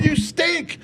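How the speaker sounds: high-pitched retold heckle; mock heckler scream. Comic quoting the crowd to host, high mock scream. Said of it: "They were screaming".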